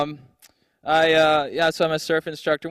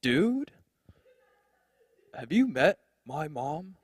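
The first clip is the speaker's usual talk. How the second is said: whiny bro; 6 semitones higher, much slower than usual. Retold or imitated. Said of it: "He's like".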